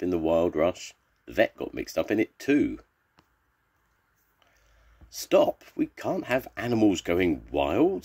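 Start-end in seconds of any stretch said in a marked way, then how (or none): 5.1-8.0 raised, high voice of protest; storybook vet shouting for order; commanding call. A narrator's reading. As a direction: call a halt over the uproar. Vet commands animals amid commotion.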